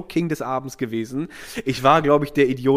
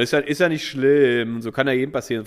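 raised consoling voice to the barmaid; a bit louder. Retold or imitated. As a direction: say it so she can hear. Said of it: "ein bisschen lauter so zu ihr".

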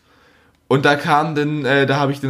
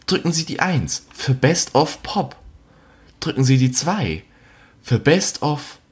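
phone menu voice. Retold or imitated. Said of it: "Dann geht's weiter".

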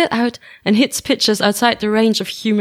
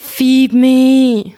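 whiny demand; 6 dB louder than usual. Acted. Starving friend begs for food.

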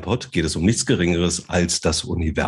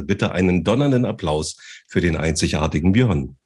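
boxing ring announcer; 3 semitones higher than usual. Pretend. In der roten Ecke" fighter intro.

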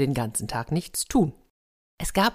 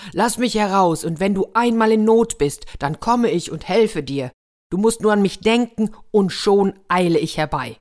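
loud, raised pleading of a captive; lightly voiced evil spirit, urging; 4 semitones higher, 5 dB louder than usual. Evil spirit begs the soldier for release, urgent and loud. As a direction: urge him forcefully to let you out.

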